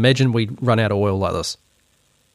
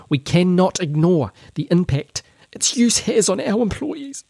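higher-pitched voice; 6 semitones higher than usual. Acted. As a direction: read it like a mocking impersonation, pitched way up. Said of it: "a higher-pitched voice".

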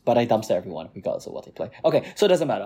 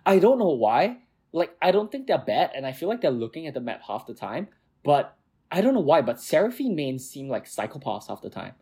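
animated exasperated rant; worked up. Real, not acted. Friend venting about Seraphine mains, worked up. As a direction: rant as if really riled by these players. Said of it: "I'm worked up right now".

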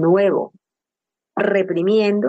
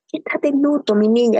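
higher, tender coaxing; affectionate guard; 5 semitones higher than usual. Retold or imitated. Security guard gently urging a grieving woman, affectionately. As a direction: coax her gently like a fond old friend. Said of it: "Él es muy cariñoso".

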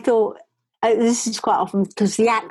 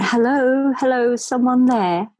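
calling out; 5 semitones higher than usual. Retold or imitated. Calling into a neighbour's intercom, raised and higher. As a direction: call hello into the silent intercom.

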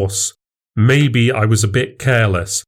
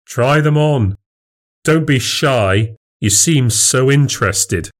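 higher, mock-encouraging taunt; goading; 4 semitones higher than usual. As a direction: push him into embarrassment. Goading the rival to try on.

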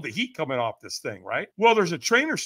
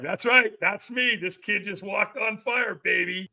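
retold exhilarated boast; 4 semitones higher, slower than usual. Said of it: "it's so exhilarating".

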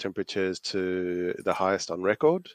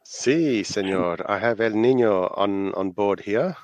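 playful mock Spanish accent on si senor; 4 dB louder than usual. Co-host answering in a jokey Spanish accent. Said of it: "you said that so beautifully".

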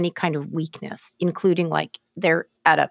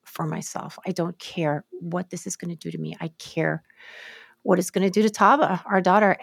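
broken-down ex; 3 dB quieter than usual. Retold or imitated. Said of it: "he just broke down".

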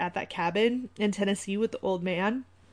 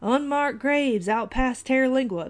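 put-on old man's drawl accent; 3 semitones higher than usual. Host acting the old man from Shooter, terrible put-on accent. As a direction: put on a bad old-timer movie accent. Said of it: "let me work on this accent".

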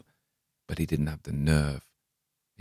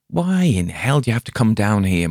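demanding; 5 semitones higher, 5 dB louder than usual. Acted. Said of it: "Morgan demanded".

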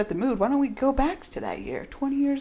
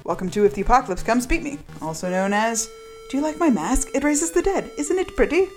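announcer read of the show title; title card read with a building lilt; playful show intro; podcast intro. Acted. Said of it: "show intro read".

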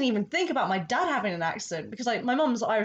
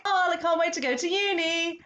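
high, excited rush of feeling; mock-eager, pitched well up; retold eager anticipation; 9 semitones higher, 3 dB louder than usual. Recalling the feeling before starting uni, acted excitement. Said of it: "that feeling of".

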